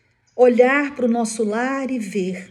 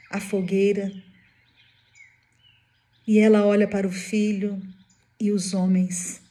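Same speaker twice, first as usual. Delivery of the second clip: normal talking voice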